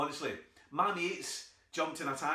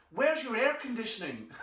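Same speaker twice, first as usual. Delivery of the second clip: American auntie; 8 semitones higher, 5 dB louder than usual. Retold or imitated. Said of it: "And she went".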